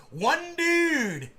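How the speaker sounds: "dude" held long on a high pitch; stress on DUDE. Retold or imitated. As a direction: wail out "dude" in mock disbelief. Repeats the single source, incredulous.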